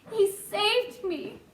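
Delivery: mild gasp. Acted. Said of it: "gasped the centipede".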